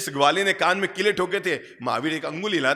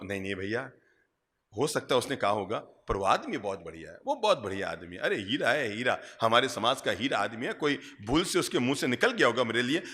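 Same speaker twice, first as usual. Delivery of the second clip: lower, softer acted conciliation; mild forgiving reassurance; 5 semitones lower, 5 dB quieter than usual. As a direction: play someone gently defending his critic. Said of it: "और number दो". (नीची, नरम आवाज़ में सुलह भरा बचाव)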